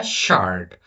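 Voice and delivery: শার্ট drawn out with a clear sh; pronunciation demo. Shown as a demonstration. Teacher correcting the s guess, pronunciation demo of শার্ট. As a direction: model শার্ট with sh, not a plain s. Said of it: "এস এর মতো শুন".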